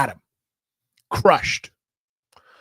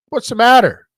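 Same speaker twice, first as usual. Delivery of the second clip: coaxing through door; 4 semitones higher, 5 dB louder than usual. Retold or imitated. Calling brother out of bathroom.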